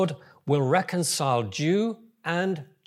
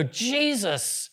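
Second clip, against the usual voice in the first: imagined joyful declaration; 10 semitones higher, 6 dB louder, slower than usual. Retold or imitated. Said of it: "they go".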